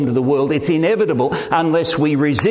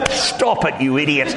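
exasperated telling-off of oneself; mock self-scolding. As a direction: pull yourself up short, comically. Scolds himself for tearing up.

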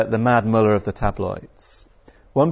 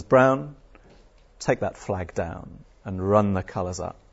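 calm; 4 semitones lower than usual. Retold or imitated. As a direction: keep it cool and matter-of-fact. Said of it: "very calmly".

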